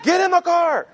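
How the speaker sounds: loud, high-pitched panicked order; urgent yell. Retold or imitated. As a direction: shout the command at an oblivious son. Father repeats order, yelling.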